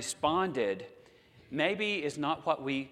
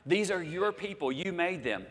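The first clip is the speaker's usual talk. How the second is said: reminding God; 6 semitones higher than usual. Retold or imitated. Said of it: "So he has to remind God".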